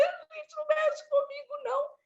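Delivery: high, indignant plea; stubborn protest. Retold or imitated. Injured woman refusing to leave the stretcher, indignant. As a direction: refuse to be moved. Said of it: "Eu falei".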